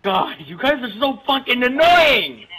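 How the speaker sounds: mock fury. Ben rants at his friends in slow fake anger. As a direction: drag it out in fake rage. Staged rage, later admitted prank.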